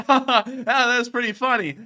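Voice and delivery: high, light demonstrated chuckle; normal laugh. Shown as a demonstration. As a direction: act out an ordinary amused laugh. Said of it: "you normally laugh like".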